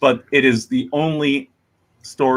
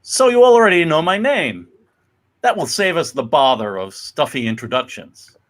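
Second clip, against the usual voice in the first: louder, higher pleased greeting; hearty father; 3 semitones higher, 3 dB louder than usual. Acted. Father greets the neighbors, louder and higher. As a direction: greet the neighbors warmly and loudly.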